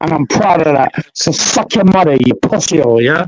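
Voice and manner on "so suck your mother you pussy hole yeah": Jamaican patois with a lower, angry edge. Real, not acted. The speaker insulting the host on air, in angry Jamaican patois. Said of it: "talking patois when you get angry".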